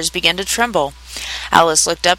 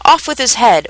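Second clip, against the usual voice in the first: raised, furious royal command; shouting; 5 semitones higher, 4 dB louder than usual. A narrator's reading. The Queen in a furious passion, shouting. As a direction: order it angrily, pitched up. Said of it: "stamping about and shouting".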